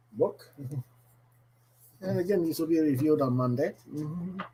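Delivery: bad, hammy Irish accent. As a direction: lay on a cheesy Irish brogue. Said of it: "doing a really bad Irish accent today".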